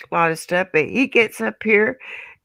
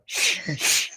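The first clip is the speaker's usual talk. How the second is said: put-on whispered shh to quiet the boys; hushing; 7 dB quieter than usual. Mother hushing her boys in the bathroom stalls, whispered. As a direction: hush them in an urgent whisper. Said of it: "I'm going".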